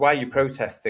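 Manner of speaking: ordinary delivery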